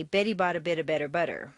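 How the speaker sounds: low, smooth "Betty bought a bit of better butter"; cello-like. Shown as a demonstration. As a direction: run the words together low, like a cello. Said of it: "Imagine the sound of a cello when you say".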